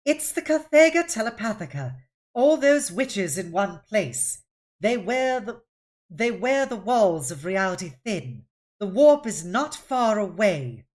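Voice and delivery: a nervous crew member insisting; spooked explanation. Acted. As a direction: warn them the warp is near. Jafinier explains warp.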